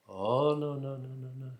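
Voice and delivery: overdone, sing-song brush-off; mock innocent denial. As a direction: protest innocence in a put-on voice. Guys' acted denial of taking sticks.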